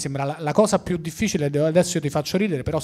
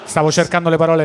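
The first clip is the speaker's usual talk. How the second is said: laughing; 7 dB louder, faster than usual. Real, not acted. Laughs at own answer.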